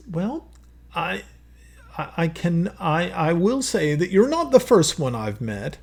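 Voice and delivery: a jovial monarch sizing up a guest; king's voice. Acted.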